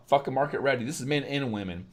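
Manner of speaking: ordinary delivery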